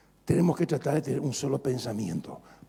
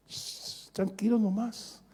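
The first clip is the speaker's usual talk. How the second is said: calmando en voz baja; 5 semitones higher, 6 dB quieter, much slower than usual. Acted. Calma al marido.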